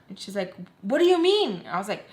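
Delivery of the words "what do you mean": high-pitched mock disbelief; incredulous. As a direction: imitate her shocked demand, pitch jumping up. Acting out her incredulous reply.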